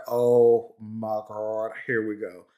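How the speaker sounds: slow, dropping 'oh my God, here we go'; weary dread. Retold or imitated. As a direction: sigh it out, resigned. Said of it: "It's like".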